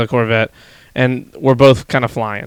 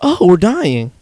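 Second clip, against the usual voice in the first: higher, louder mock terror; imitating sure we're about to die; imitating sure the driver will shoot them; mock panic; 5 semitones higher, 4 dB louder than usual. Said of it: "in my head, I was like".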